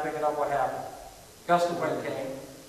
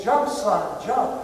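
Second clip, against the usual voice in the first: mildly raised urgent call, higher on the last word; crying out; 4 semitones higher, 5 dB louder, much slower than usual. Retold or imitated. Father on the ground to his little boy on the roof, crying out. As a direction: call out as a desperate father, half-projected. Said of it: "crying out to his little boy".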